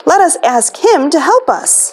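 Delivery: a hint of a funny clown. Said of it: "said the funny little clown".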